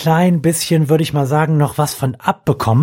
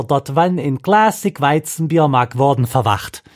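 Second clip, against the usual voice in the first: put-on Dutch accent; 5 semitones higher than usual. Reading a Dutch beer label.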